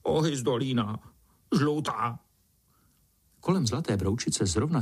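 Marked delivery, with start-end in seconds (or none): 0.0-2.2 pitiful. A narrator's reading. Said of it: "žalostná odpověď".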